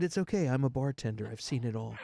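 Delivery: retold soothing reassurance, easing down; calming voice. Bartender calming a panicking woman, soothing voice. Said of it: "You have a very calming voice".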